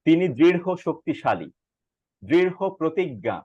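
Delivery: দৃঢ় with a breathed rho inside the phrase; careful model phrases, puff of h ending দৃঢ়; aspirated ending. Shown as a demonstration. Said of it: "বাতাসটা এভাবে বের হবে".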